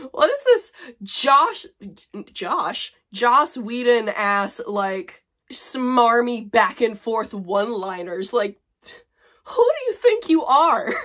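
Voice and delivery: high, loud, slow sneer; mocking disbelief. Real, not acted. Mocking her own snappy dialogue, loud disbelief. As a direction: roll your eyes through it. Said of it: "mocking dialogue".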